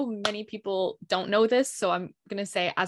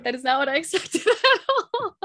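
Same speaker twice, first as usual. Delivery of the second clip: surprised; 8 semitones higher, 4 dB louder than usual. Real, not acted. Host reacts to the surprising answer.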